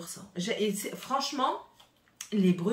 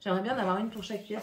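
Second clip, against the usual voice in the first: rushed fast repeat of the wish; quick throwaway repeat; much faster than usual. Shown as a demonstration. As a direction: rattle it off quickly. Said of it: "je vous en avais déjà dit".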